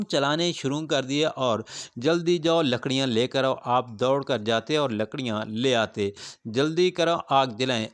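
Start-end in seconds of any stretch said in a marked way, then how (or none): 2.0-3.5 mildly acted bossy order, a bit louder; brisk command. Bedouin orders the man he takes for a servant, commanding. 6.4-7.9 mildly acted impatient order; hurrying command. Bedouin hurries the supposed servant to light the fire, commanding.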